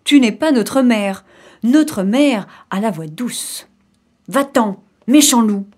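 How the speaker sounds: lightly voiced little goats standing firm; defiant kids. Kids refuse the wolf entry, mildly defiant.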